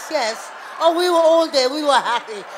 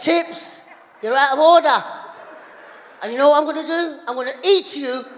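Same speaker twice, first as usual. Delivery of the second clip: mock scolding; 3 dB louder than usual. Scolding the chips.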